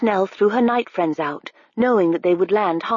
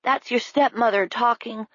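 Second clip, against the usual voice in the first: Harve; 4 semitones higher than usual. A narrator's reading. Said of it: "Harve said".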